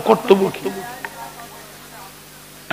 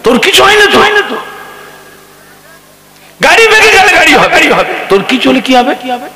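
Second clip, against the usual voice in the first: much higher, tender coaxing; pleading reassurance; 10 semitones higher, faster than usual. Retold or imitated. Father calming his frightened son, pleading and tender. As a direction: soothe a scared boy with rising pleas.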